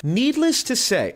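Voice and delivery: high, drawn-out put-on British accent. Reading out the critic's quote in a mock British accent. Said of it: "I'll do it in a British accent".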